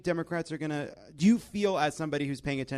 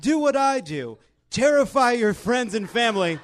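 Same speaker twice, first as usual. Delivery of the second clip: lightly voiced chirpy hostess, laughing through it; a hint of a bubbly lifestyle guru; mock Ivanka; 3 semitones higher, 5 dB louder than usual. Host mocking Ivanka's holiday decor tips, lightly voiced and laughing. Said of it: "So Ivanka's like".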